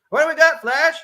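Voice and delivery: deputy asking. Acted. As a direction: hail him casually. Deputy greets officer.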